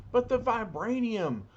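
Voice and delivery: high, desperate cry; cries out. Acted. Claw crying out as he must flee, high desperate cry. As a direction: wail for the lost treasure. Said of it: "cries Claw".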